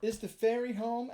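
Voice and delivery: put-on high, eager puppet boy calling up; a little wooden boy knocking late at night; high calling marionette voice; Pinocchio voice. A narrator's reading. Pinocchio at the door.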